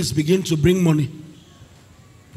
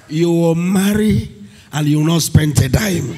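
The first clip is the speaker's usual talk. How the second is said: thunderous wrathful prophet. Acted. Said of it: "Can I speak like a prophet".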